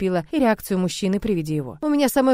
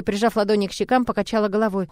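usual speaking voice

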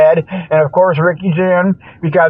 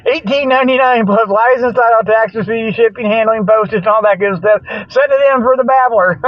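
mock ad read; 5 semitones higher than usual. Mock ad for the babbler.

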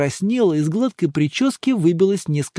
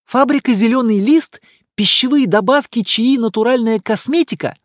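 higher, louder female voice reading a card; reading aloud; 6 semitones higher, 5 dB louder than usual. A narrator's reading. Emma reading the monk's business card aloud. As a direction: read the business card out loud. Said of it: "прочитала она вслух".

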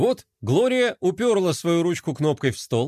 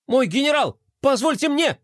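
higher, fawning little servant; fawning plea; 10 semitones higher than usual. A narrator's reading. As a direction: grovel up to the general. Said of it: "залебезил Мелкотрон". (заискивающе, подобострастно)

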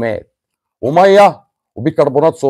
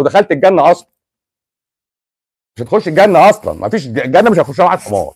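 exasperated rant; 5 semitones higher, 4 dB louder, faster than usual. Real, not acted. Angry rant at the student.

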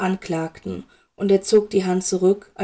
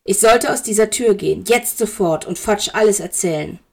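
angry threat. Acted. Severus threatens to tell Fudge.

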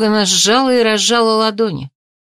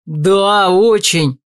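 eager; 4 dB louder, much slower than usual. A narrator's reading. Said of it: "тут же закивал молодой парень".

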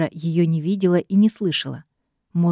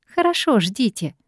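doubtful drawl; 4 semitones higher than usual. Acted. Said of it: "недоверчиво протянула она".

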